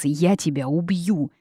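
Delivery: ordinary delivery, nothing marked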